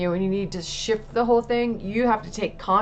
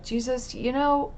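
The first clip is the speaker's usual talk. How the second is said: retold tearful prayer. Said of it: "um, said".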